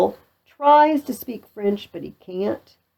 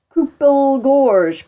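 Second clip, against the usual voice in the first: loud, high, mangled French; blustering; 7 semitones higher, 6 dB louder than usual. Acted. Pistol tries French on his captive, loud and blustering. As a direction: throw the French out with swagger.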